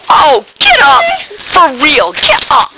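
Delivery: urgent, pleading call to rise; rousing call. Acted. Urging the fallen listener to rise, urgent and pleading. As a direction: lift them up with your voice.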